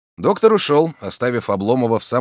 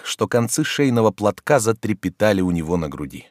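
ordinary delivery, nothing marked

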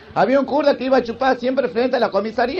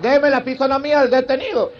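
mildly raised commanding call; mock shout. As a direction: play a police chief calling his sergeant. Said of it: "el comisario le grita". (grito de comisario, a medias)

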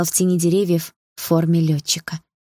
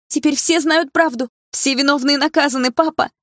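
shouting; 10 semitones higher than usual. Acted. Daughter shouting after her father in the dream, fervent shout. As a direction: call it up to the sky.

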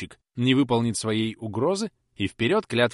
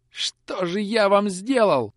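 tearful plea; 11 semitones higher, 6 dB louder, much slower than usual. Acted. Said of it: "пробормотал Котёл".

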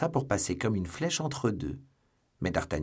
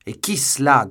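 loud, raised demand; urgent, raised-voice question; startled question; 4 semitones higher, 11 dB louder than usual. A narrator's reading. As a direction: call out sharply to ask who. Startled question after the outburst.

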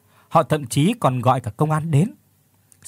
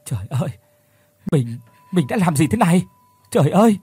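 Phước sobs on a street corner over what he has done; sobbing; 4 semitones higher than usual. Acted. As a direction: break down crying like a child, building to a wail. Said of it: "Phước òa lên khóc nức nở".

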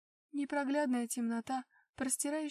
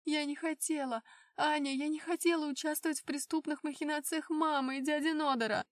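sobbing, raised pleading voice; tearful vows; 5 semitones higher, 5 dB louder than usual. Acted. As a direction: plead through tears. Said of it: "Эльза всхлипнула". (сквозь слёзы)

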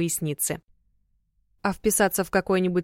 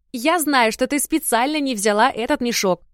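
raised, indignant grumble; grumbling; 5 semitones higher, 3 dB louder than usual. A narrator's reading. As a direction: grumble it out loud, accusing. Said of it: "проворчала младшая сестра".

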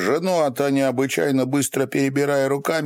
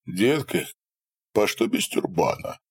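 teasing; 3 dB quieter than usual. A narrator's reading. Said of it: "спросил Будан".

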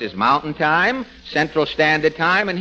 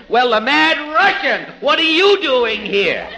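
mocking comedian surprise; 8 semitones higher than usual. Fred Allen mocks a comedian's surprise at his guest. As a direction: ham up the fake astonishment. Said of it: "He said".

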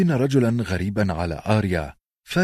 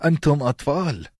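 higher, scoffing question; mocking; 7 semitones higher than usual. A narrator's reading. Theon mocks the boys with a higher scoffing question. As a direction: sneer at them. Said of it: "قال بتهكم".

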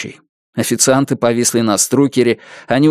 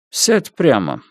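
emotionless; slower than usual. Acted. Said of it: "бесстрастно сказал он".

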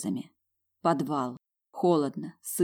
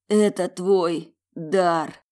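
emphatic; 2 semitones higher, 6 dB louder, much slower than usual. Acted. Ruslan insists hoarsely.

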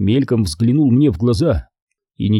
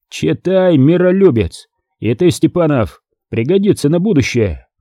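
raised, scornful command; angry shout; 5 semitones higher than usual. Acted. Angry commander shouting at his officers. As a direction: throw the words at them.

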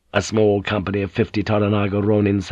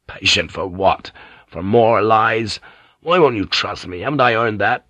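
angry accusation. Acted. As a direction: confront her, voice rising. Blackthorn confronts Mariko angrily.

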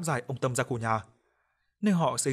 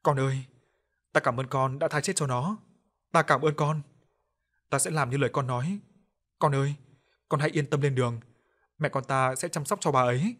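sobbing voice. Acted. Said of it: "giọng ông nức nghẹn".

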